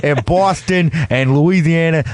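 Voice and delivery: lightly put-on New Orleans accent. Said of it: "that's my attempt at doing a New Orleans accent".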